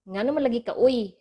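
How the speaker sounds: mildly annoyed demo question; a little impatient, pressing for an answer; lightly annoyed, oy pushed up at the end. Shown as a demonstration. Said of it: "that person is a little bit annoyed already".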